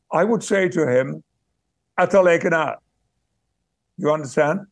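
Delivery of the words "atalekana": put-on old Yorkshire dialect, words run together. Shown as a demonstration. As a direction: call it to a friend in broad Yorkshire. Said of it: "it was dialect. And I will give you an example".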